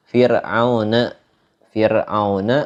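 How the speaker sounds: Fir'auna with a light, thin r. Shown as a demonstration. Teacher giving an example of tarkik, thin ro in Fir'auna. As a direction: say Fir'auna slowly with the r kept thin. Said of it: "hukum ro-nya dibacanya tipis".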